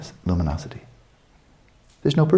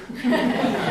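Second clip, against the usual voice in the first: high airy laugh; 5 dB quieter than usual. Real, not acted. Laughing at own joke.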